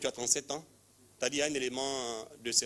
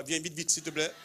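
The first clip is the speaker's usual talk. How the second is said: calling out; 4 semitones higher than usual. Real, not acted. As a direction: call her up from the back. Calling a woman forward.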